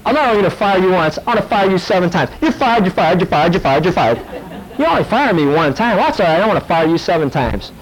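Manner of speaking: high, fast mock firing rant; hammed-up boss firing everyone; mock angry boss. The pastor plays Nebuchadnezzar as a boss, fast and hammed up. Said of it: "It was like".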